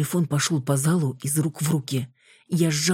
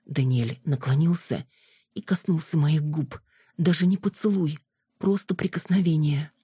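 ordinary delivery, nothing marked

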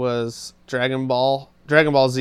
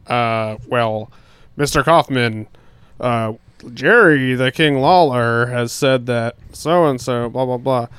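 announcer voice; slower than usual. Retold or imitated. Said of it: "he was, like, a great announcer".

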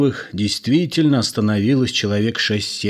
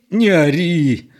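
slow, louder, suffering voice; pained plea; 7 semitones higher, 5 dB louder, slower than usual. A narrator's reading. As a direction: beg her to stop, hurting. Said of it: "страдальческим голосом попросил".

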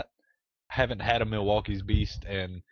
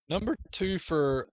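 higher, booming announcer read; radio announcer voice; 7 semitones higher than usual. Pretend. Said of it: "radio announcer voice".

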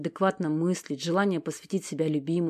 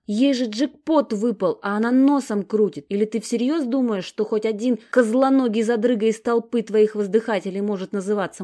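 loud, higher, scornful tirade; heated rant; 5 semitones higher, 6 dB louder than usual. Acted. Sasha lectures her sister about worthless men, heated and loud. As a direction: tear into the admirers with contempt. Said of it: "распаляется Сашка".

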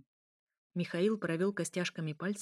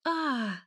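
short higher-pitched cry of pain; mild pained cry; 6 semitones higher, 4 dB louder than usual. A narrator's reading. Elya feels a painful jab, mild pained cry. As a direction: cry out briefly, not at full force. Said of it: "закричала Эля".

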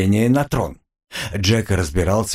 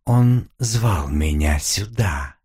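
a demon lost in memory, slow; dreamy demon; much slower than usual. Acted. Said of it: "мечтательно произнесла девушка". (мечтательный голос демона)

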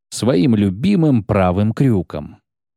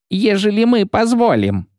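rowdy guardswoman; 10 semitones higher than usual. Acted. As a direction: jeer at him like a rude soldier. Guardswoman voiced high.

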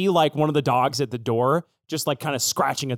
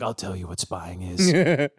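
put-on low, slow old spymaster; seasoned tough-dog voice, pitched down; grizzled spy dog; 9 semitones lower than usual. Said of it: "like, a grizzled goatee".

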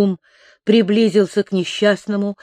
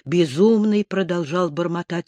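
ordinary delivery

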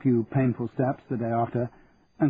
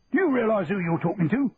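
bellowing sergeant major; 8 semitones higher than usual. A narrator's reading. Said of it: "bellowed the sergeant major".

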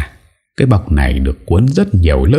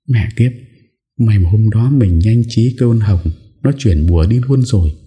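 a lightly voiced young woman, higher, relieved and smug; relieved schemer; 6 semitones higher than usual. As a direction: mutter a smug sigh of relief as the scheming girl. An Nhã relieved, alone. (giọng cô gái nhẹ nhõm, đắc ý)

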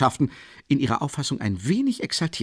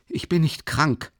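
shouting; 7 semitones higher than usual. A narrator's reading. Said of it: "schrie ihn Raskolnikow an".

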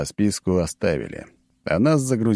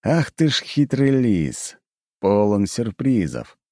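slow amused announcer; 4 semitones higher, slower than usual. Acted. Announcer exclaims.

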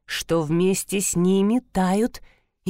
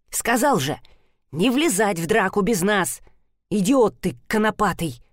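swearing. Acted. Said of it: "выругался коротышка".

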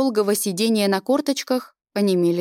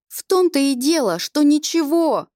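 accusing cry; 6 semitones higher than usual. A narrator's reading. Girl accuses the angel.

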